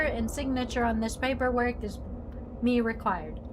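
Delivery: lightly voiced archaic gentleman; a hint of Shakespearean formality; old-timey formal. Character speaking to lodger, in a light mock-archaic formal voice. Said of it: "When did you start talking like this?".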